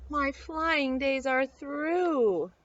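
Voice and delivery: slow, mildly sad; a touch of sorrow, drawn out. Acted. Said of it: "Buzzy sadly told them".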